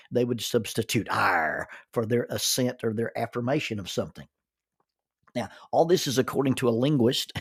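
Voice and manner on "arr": low "are" as a pirate's yes. Shown as a demonstration. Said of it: "instead of saying "yes".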